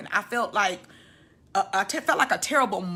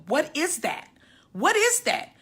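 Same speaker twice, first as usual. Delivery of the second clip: frantic; 7 semitones higher than usual. Retold or imitated. Frantic questioning of the nurse.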